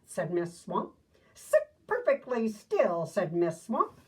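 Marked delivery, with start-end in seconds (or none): 1.3-3.1 stern order. Acted. Strict teacher Miss Swamp ordering.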